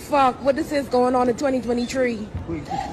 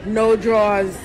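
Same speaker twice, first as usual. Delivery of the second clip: shocked exclaim; 4 semitones higher than usual. Retold or imitated. Reacting to video, imitating.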